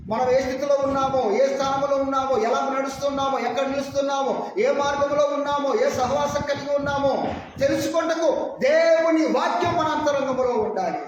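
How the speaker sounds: mildly fervent preacher's list; preaching. Acted. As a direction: drive each point home in a steady chant-like run. Preacher lists in rising fervour. (ఉత్సాహంగా ప్రసంగం)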